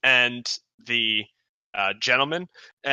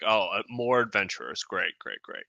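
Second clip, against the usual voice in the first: mildly disdainful, sinking lower and softer; a little disdainful; 3 semitones lower, 3 dB quieter than usual. Acted. Guard greeting yet more adventurers, mildly disdainful. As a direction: feign approval with a touch of disdain. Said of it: "a little bit disdainful".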